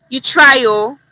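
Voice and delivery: teacher showing the phrase "You try" loudly; emphatic demo. Shown as a demonstration. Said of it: "understand the difference".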